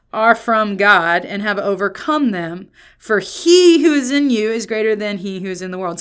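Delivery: deliberate start, pressing the key words; emphatic reading. Shown as a demonstration. Preacher reads the verse to the church, emphatic reading. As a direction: read the verse out firmly, slowing on the opening. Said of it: "the emphasis that I think".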